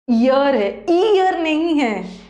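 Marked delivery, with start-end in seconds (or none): 0.9-1.4 "ईयर" said slowly, drawn out; slow careful example. Shown as a demonstration. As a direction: stretch out "ईयर" deliberately. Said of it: "इसका pronunciation".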